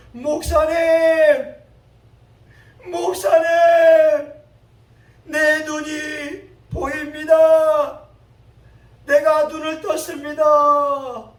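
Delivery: high, very loud, drawn-out cry; acted tearful shout. Healed blind person crying out to the pastor, acted tearful shout. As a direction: call out slowly at full voice, as if overcome. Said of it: "울음 섞인 목소리로 외치는 것이었습니다".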